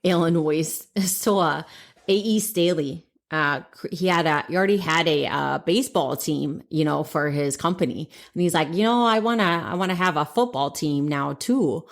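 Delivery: put-on playful Wisconsin accent. Host retelling how Staley formed a team, Wisconsin accent. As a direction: carry on in a put-on Wisconsin twang. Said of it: "in your Wisconsin or Chicago accent".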